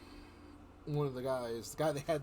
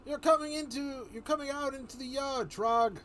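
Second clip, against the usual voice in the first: radio order; 11 semitones higher, 6 dB louder than usual. Acted. Voicing game character over radio.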